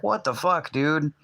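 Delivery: high, exasperated disbelief; retold exasperation. To her waiting in the lot, high exasperated disbelief. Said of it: "I'm just like".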